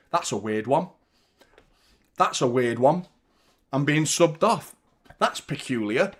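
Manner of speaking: sulky mumble, lightly put on; mock sulking player. Fan mimics the subbed striker, mock sulk. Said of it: "Bottom lipping shit".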